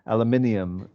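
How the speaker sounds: Aluminium in five syllables, al-yoo-MIN-ee-um; teacher shows the English way: Aluminium with the extra ee-um; Aluminium said the way people say it in England; British pronunciation. Shown as a demonstration. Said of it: "they say in, in England".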